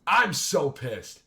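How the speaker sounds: pissed off. Real, not acted. Commentator fuming at the Tiger footage, slow and loud. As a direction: spit out each word in real anger. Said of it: "I am fucking pissed".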